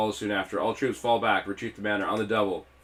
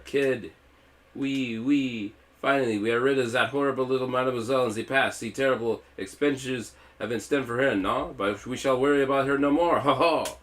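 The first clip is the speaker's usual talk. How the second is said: higher, louder pompous French gloat; gloating villain; 5 semitones higher, 4 dB louder than usual. A narrator's reading. Pompous villain celebrating Kid's defeat, hammed-up gloat. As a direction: crow over the victory like a pompous villain.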